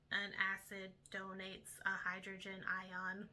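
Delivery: flat mechanical robot voice. Shown as a demonstration. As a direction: speak like a monotone robot. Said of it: "an example of the robot voice, I'll do that for you guys".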